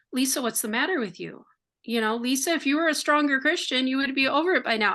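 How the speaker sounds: quick, impatient scolding of herself; self-scolding. Retold or imitated. Woman mocking her own inner critic, quick and impatient. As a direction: rush it like nagging yourself. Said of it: "I was saying that to myself".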